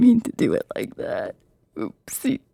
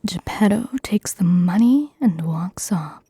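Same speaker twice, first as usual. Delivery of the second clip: ASMR whisper. Acted. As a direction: whisper every word close to the mic. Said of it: "my first time doing A S M R".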